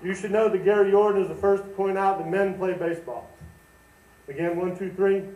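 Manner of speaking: talking around a wad of tobacco; chewing tobacco. Real, not acted. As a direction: mouth full of tobacco. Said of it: "with this tobacco in my mouth".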